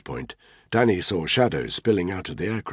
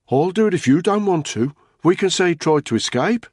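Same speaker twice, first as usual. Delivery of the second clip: higher, louder, cold offer; hard urging voice; 11 semitones higher, 6 dB louder than usual. A narrator's reading. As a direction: push the ugly offer. Another voice urging a kill.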